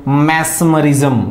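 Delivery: मैस्मरिज्म said slowly, syllable by syllable; slow drill of मैस्मरिज्म; slow model word. Shown as a demonstration. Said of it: "आप इसको pronounce करेंगे दो से तीन बार".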